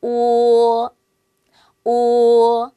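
오 as one pure rounded sound, held and loud; Chinese o. Shown as a demonstration. Teacher models 오 for learners, loud and held. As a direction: model 오 with rounded lips, not English-style. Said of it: "이렇게 읽으셔야 돼요".

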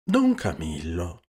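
slow, smiling address; indulgent, unhurried call. A narrator's reading. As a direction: draw out the name with a smile. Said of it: "si informò sorridendo il Cristo".

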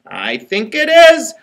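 slow, lightly voiced little engine; a gentle first take of the engine. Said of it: "said the little engine".

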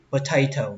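potato as puh-TAY-toh with light breathy t's; light tongue. Shown as a demonstration. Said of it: "các bạn đọc nhẹ lưỡi ra một tí".

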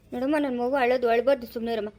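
low, tender hushing; soothing a child. Acted. Parent tells own crying child to hush, soothingly.

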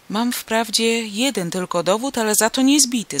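eager, building exclamation; elated. Acted. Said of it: "zawołałem znowu w uniesieniu".

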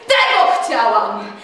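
loud, slow accusing cry; outraged cry. A narrator's reading. Telimena pointing at Tadeusz and crying out in fury. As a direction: hurl it at him. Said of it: "krzyknęła".

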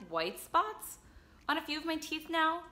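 talking around own finger; finger in mouth. Real, not acted. Seen 0: Finger pressed against lower teeth inside the open mouth while speaking.

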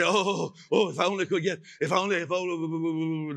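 hint of a whiny churchgoer; lightly hammed-up longing sigh; a touch of mock self-pity; mock pleading. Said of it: "they go on like that".

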